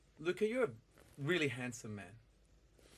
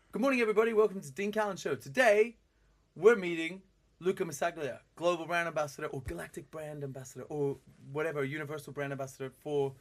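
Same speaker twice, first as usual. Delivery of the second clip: lightly raised, louder presenter voice to show how it's done; demo show intro; 2 semitones higher, 6 dB louder than usual. Shown as a demonstration. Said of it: "And then say, like".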